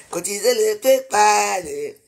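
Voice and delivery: slow "Cotisez le PayPal", falling on PayPal; drawn-out slogan. Real, not acted. Pressing viewers to pay, slow and chanted. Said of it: "C'est de ça qu'il s'agit".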